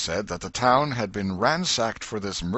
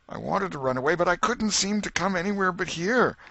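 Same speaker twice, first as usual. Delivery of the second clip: tearful excuse; 12 semitones higher, 4 dB louder than usual. Acted. Potter sobbing his excuse.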